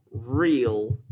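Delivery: real set apart by pauses, said slowly on its own; stressed word real. Shown as a demonstration. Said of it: "I wanna emphasize the word real".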